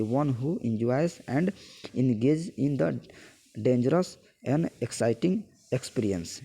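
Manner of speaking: slow word-by-word reading of a definition; slow dictation. Acted. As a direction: read it out slowly so students can copy it down.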